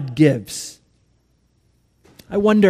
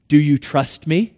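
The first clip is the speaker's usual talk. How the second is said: gentle question from above; calm, measured question; kind voice; 3 semitones lower than usual. Acted. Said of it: "The kind voice from above".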